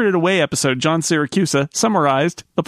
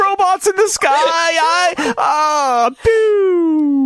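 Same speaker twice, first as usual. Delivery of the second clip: put-on high, hammy old man's death speech; Sanford-style dying robot; 11 semitones higher than usual. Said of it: "dramatic reenactment of old Robot Bob's very extended death scene".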